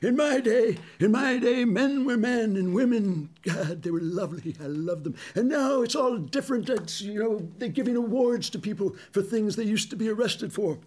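high, hammed-up old grouch reminiscing; Grampus McFuddy-Dud. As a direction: lampoon a grumbling old codger pining for his day. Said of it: "He's always saying".

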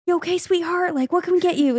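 high, caring voice imitating a kind nurse. Nurse guy checking on a lightheaded patient, imitated kindly. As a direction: coo it sweetly, pitched well up. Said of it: "And just so kind".

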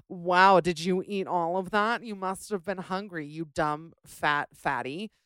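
mock snooty server voice, a sudden loud "Wow". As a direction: parody a judgy waiter, dragging out "fat fatty". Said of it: "they're like".

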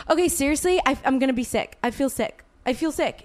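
pressing, exasperated repetition; retold urgent insistence. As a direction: insist you really need privacy, acted out. Acts out urgent plea to be left.

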